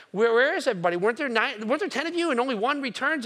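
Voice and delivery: where did they all go; baffled Jesus. Acted.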